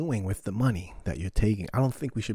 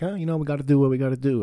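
mock resigned friend; 4 semitones higher, 5 dB louder, much faster than usual. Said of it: "Angel was like".

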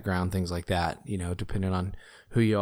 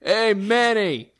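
silly voice; 12 semitones higher, 3 dB louder, much slower than usual. Pretend. Repeats greeting slowly.

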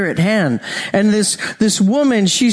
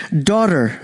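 tender; 4 semitones lower than usual. Shown as a demonstration. Jesus addressing the healed woman, low tender "Daughter.". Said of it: "And he says it like this".

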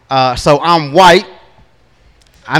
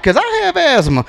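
put-on confused little girl; 10 semitones higher, 4 dB quieter than usual. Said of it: "She was like".

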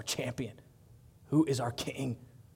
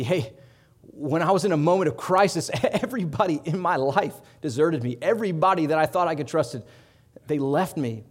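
impassioned retelling; 6 dB louder than usual. Acted. Preacher voicing Paul's lament.

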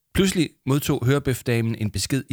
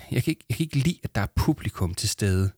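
nervous. Acted. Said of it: "sagde Arthur nervøst".

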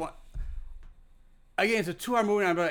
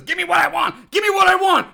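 higher, louder demanding shout building up; mock shout; 9 semitones higher, 7 dB louder than usual. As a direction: rant it like a madman. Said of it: "Batista says".

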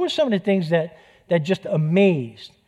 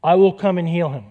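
plain direct; 4 dB louder than usual. Shown as a demonstration. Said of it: "It's just as direct".

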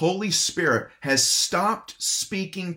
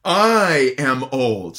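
incredulous; 6 dB louder, much slower than usual. Retold or imitated. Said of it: "more of a tone of just incredulity".

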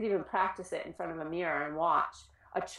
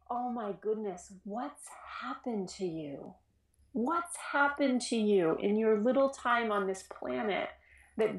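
gentle and concerned; 2 semitones higher than usual. Shown as a demonstration. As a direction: say it with tender concern. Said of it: "your body relaxes a little bit".

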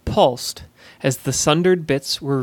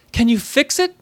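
eager; 10 semitones higher than usual. Acted. Urgent question to sorceress.

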